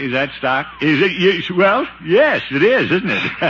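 high, loud flustered stammer. Acted. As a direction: caught red-handed, sputter. Caught by mayor, flustered.

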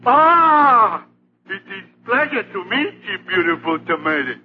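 fake French accent. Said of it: "he doesn't sound very French".

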